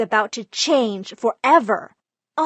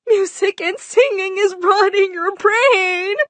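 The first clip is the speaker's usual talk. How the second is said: higher, louder wail through tears; tearful mom; 9 semitones higher, 5 dB louder than usual. Retold or imitated. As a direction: mom bursting into tears over her child's music, wailing higher. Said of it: "My mom just burst into tears and said".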